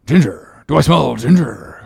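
sniffing out something suspicious. Acted. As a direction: Stubb sniffs, wary and doubtful. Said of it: "suspiciously asked Stubb".

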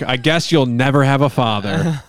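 mock outrage. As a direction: rail at the unfair verdict. Mock outrage at imagined interviewer.

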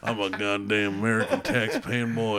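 drawling Southern redneck accent, hammed up; Sam Elliott redneck voice. Bragging about his Chevy in a mock Southern redneck accent. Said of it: "my Sam Elliott redneck voice".

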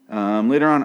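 normal talking voice

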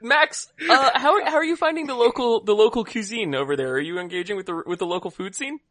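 mock interviewer. Interviewing pretend guest Max.

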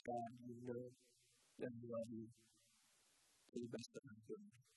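soft, low admission; humble acknowledgment. Retold or imitated. Preacher retells Peter answering Jesus after his denial, humble soft acknowledgment. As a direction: admit it quietly and humbly. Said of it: "He simply acknowledges".

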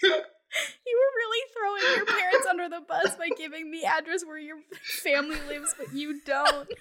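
laughing through the whole line; cracking up while teasing. Real, not acted. Teasing friend over parents' address.

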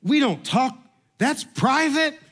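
husband mimicking wife's horrified protest, high; mock prim wife. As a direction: squeak it like a scandalised lady. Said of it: "She goes".

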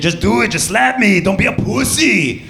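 high, insistent hammed-up German accent; mangled German accent, pitched well up; mock German accent. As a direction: goad him in a badly faked German accent. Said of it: "so she continued".

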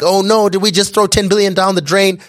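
high, panicked "oh no" cry. Retold or imitated. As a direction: squeak it out in a sudden panic. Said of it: "people were like".

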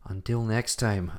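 Until next time, slow and drawn out like a host; dramatic sign-off. Pretend. Signing off the podcast, a slow theatrical until next time. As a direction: stretch the farewell theatrically. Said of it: "I'm not gonna do it like this".

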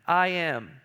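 "I am" set apart after a pause, weighted; emphatic statement. Retold or imitated. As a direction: let "I am" stand alone as a firm declaration. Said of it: "he's emphatically telling them".

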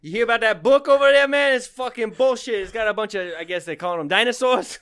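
high, loud bro rant; hammed-up bro complaining about dinosaurs; dude bro voice. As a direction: rant like an offended medieval bro. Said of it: "just dude bros".

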